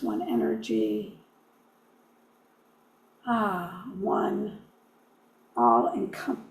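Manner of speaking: measured prayer with long reverent pauses; spoken prayer. Real, not acted. Leading listeners in a prayer for Mother Earth, unhurried prayerful delivery. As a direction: lead a prayer, phrase by phrase, pausing between.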